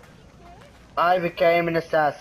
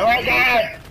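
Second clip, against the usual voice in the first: excited; 5 semitones higher than usual. Acted. Excited shouting at game character.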